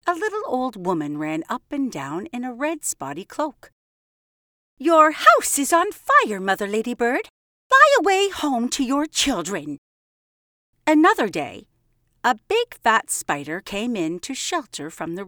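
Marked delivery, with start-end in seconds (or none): 4.8-9.8 higher, louder urgent call; urgent warning call. Acted. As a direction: call out the alarm to the ladybird. Old woman warns the ladybird.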